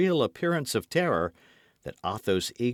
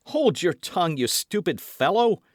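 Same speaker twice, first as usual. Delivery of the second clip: impatient command; 8 semitones higher, 5 dB louder than usual. A narrator's reading. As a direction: hush the frightened servant sharply. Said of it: "said the young man".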